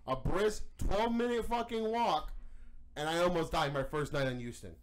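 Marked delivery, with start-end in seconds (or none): 0.1-2.3 air quotes sarcasm. Real, not acted. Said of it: "um, air quotations".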